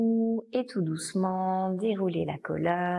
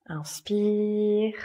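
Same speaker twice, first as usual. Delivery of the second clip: long, drawn-out breathing cue; consigne d'inspiration; 4 dB louder than usual. Real, not acted. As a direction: stretch it out to lead a slow in-breath. Breathing cue in yoga class. (inspiration guidée, voix étirée)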